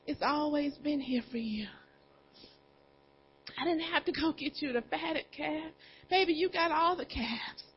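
soft pleading. Acted. Father pleading softly with his resentful older son, hushed. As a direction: coax him gently like a father who isn't angry. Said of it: "the father pleaded with the son".

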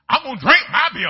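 high, loud defiant friend. Retold or imitated. Old friend insisting on his beer, loud and defiant. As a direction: hammer out the defiance.

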